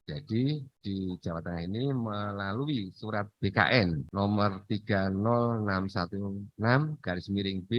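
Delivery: choppy, dropping audio; bad connection. Real, not acted. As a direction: voice cutting in and out. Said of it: "Suaranya putus-putus".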